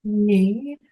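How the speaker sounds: innocent schoolgirl act. Pretend. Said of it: "Not the Catholic schoolgirl act".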